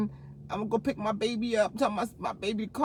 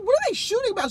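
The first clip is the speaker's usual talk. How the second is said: high, tearful laughing ask; laughing question; 12 semitones higher, 4 dB louder, much faster than usual. Retold or imitated. Asking cousin about shooting, high laughing voice. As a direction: ask through laughing tears. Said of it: "I said".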